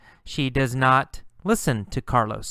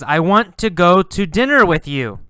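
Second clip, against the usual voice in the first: higher, louder eager offer; eager invitation; 5 semitones higher, 7 dB louder than usual. Acted. Carlos eagerly asking the girl to dinner. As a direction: ask her out eagerly. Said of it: "And he says".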